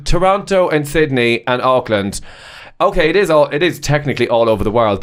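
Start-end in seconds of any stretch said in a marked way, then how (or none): 0.0-2.2 slow, unimpressed mock of her list; slow mocking repeat. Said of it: "But I'm like".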